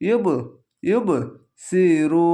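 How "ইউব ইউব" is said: ইউব repeated with a short bounce on each final ব; qalqalah. Shown as a demonstration. Teacher drilling the rule twice, qalqalah. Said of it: "তাহলে কলকলা হবে".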